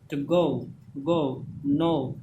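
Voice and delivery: गो, नो drawn out with an "ou" glide; slow "goh-oo, noh-oo" for गो, नो; model pronunciation. Shown as a demonstration. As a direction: let गो and नो glide into "oo". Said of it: "जैसे गो को पढ़ना है".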